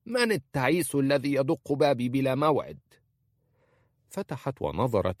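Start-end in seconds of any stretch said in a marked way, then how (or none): 0.1-2.8 a put-on old woman's voice, higher and grumbling; annoyed old woman. A narrator's reading. Old wife Khalisa answering a knock she did not want, annoyed. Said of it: "فقالت خالصة في استياء".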